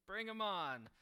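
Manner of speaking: bursts out high and loud, defiant; a cocky dare tossed at the beasts; bring 'em on. Acted. Preacher paraphrases Polycarp's answer to the governor, defiant and loud. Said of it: "It's just, you know".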